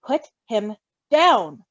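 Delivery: slow, firm and stern. Acted. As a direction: lay down the law slowly. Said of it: "Virgil said sternly".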